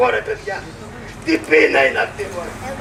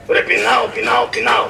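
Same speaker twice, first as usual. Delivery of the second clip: hungry shout. Acted. Begging cries outside the palace.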